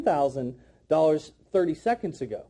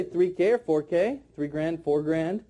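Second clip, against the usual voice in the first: lower, throwaway "three K or four K, three grand, four grand"; small-sounding price; 5 semitones lower than usual. Shown as a demonstration. Trainer showing the wrong wording, low and offhand. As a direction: rattle off the short forms without weight. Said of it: "but that doesn't sound big".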